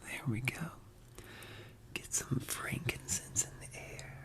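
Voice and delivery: breathy intimate ASMR whisper. Real, not acted.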